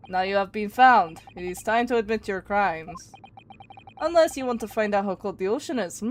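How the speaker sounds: lightly put-on Russian accent; amateur Russian accent, pressing for a confession. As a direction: interrogate in a homemade Russian accent. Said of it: "Don't mind how bad my accent probably is".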